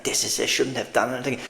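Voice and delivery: quick, low rambling self-reproach; retold rant, rushed; mock rant. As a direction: rattle it off like ranting to yourself. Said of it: "I'm ranting like".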